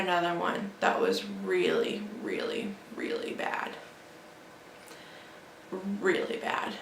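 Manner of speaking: breathless whisper of dread; hushed whisper. Real, not acted. Telling how bad the dog's seizure was, in a hushed whisper. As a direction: drop to a near whisper, shaken.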